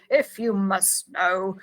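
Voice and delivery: slow, tired reluctance; weary. Retold or imitated. Host reading Odo's line to co-host, slow and weary. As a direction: drag it out as if worn down. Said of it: "Odo very wearily says".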